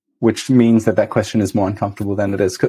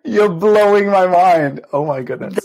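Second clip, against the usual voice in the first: high, loud, drawn-out amazement; amazed; 9 semitones higher, 3 dB louder than usual. Real, not acted. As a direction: exclaim it slowly, truly astonished. Listener amazed by the accent demo.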